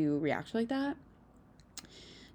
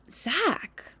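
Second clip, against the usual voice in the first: whispered, higher name drop; hushed name; 9 semitones higher than usual. Retold or imitated. Host drops the ex-fiancé's name, gossipy whisper. Names the ex in a hush.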